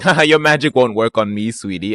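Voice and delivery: smug chuckle. Retold or imitated. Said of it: "just chuckles and is like".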